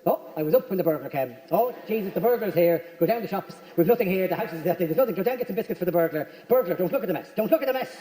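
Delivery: lightly voiced fretting Irish mammy; a hint of a flustered mother talking to the burglar; imitating own mother. Mother fussing over a burglar in a mild fretting voice. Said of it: "makes me sound like my own mother".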